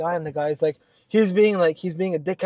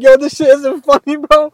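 retold loud protest; 10 semitones higher, 11 dB louder than usual. Retold protest at teasing coworkers.

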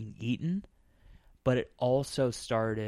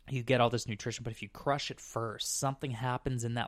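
hiccups. Real, not acted. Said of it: "I've got the hiccups right now".

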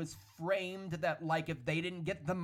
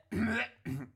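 throat clearing; 7 semitones higher than usual. Real, not acted. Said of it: "that was not me gagging".

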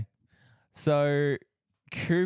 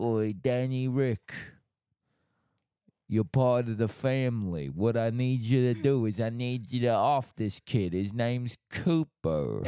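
soap opera mob boss. Retold or imitated. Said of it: "a mob enforcer on a soap opera".

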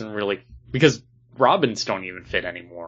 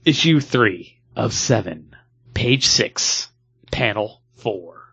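announcer voice. Acted. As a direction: announce it like a movie trailer. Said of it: "we first must do dramatic reading".

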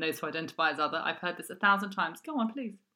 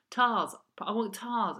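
put-on slow, pleading little-boy voice; toddler whine; 5 semitones higher, 4 dB louder, slower than usual. Imitating son asking for the duvet, slow toddler whine. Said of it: "He said".

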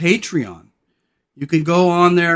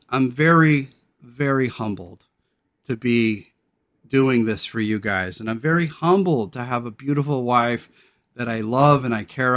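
low, humbled and heartfelt; sincere real-life voice; 3 semitones lower than usual. Real, not acted. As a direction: speak from the heart, off-air. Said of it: "This is how I really talk".

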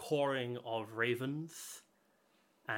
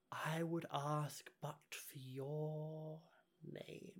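whispering; 4 semitones higher, 9 dB quieter, much slower than usual. Acted. Creature whispers its demand.

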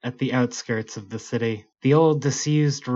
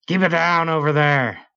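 mildly raised guard's call; cranky neighbor; 5 semitones higher, 4 dB louder than usual. Acted. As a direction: call over the wall, a bit gruff. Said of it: "came a voice from the other side".

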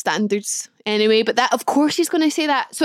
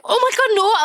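shocked denial; 10 semitones higher than usual. Retold or imitated. Denying the pregnancy guess.

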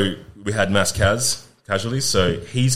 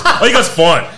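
high, loud, laughing brush-off; laughing dismissal; 14 semitones higher, 11 dB louder than usual. Retold or imitated. Padre giving up last rites on joking soldiers, laughing and loud. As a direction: wave them off loudly through laughter.

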